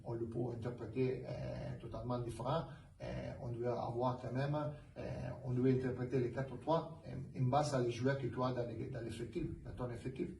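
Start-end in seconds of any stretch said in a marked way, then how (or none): 3.0-10.3 French with a foreign accent; non-native French, unpolished. Real, not acted. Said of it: "Pardon si mon français c'est pas parfait".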